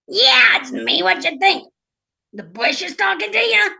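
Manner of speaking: loud, scoffing frog voice; cheeky frog mocking a silly question; sarcastic talking frog. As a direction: answer as if it's obvious, pitch climbing. Frog sarcastically answers the princess.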